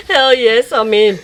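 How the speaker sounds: loud laughing hell yes; excited. Real, not acted. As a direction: cheer it out loud.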